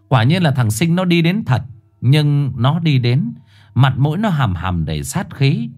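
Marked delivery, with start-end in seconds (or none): none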